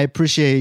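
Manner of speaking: "appreciate" with a short i in "prish"; appreciate as "a-prish-iate". Retold or imitated. Husband retelling his criticized thanks, "appreciate" with a short-i prish. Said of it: "she just criticizes how I say it".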